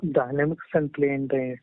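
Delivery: muffled voice, hand over mouth. Real, not acted. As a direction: speak muffled behind a hand. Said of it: "Sorry, your voice is coming very muffled".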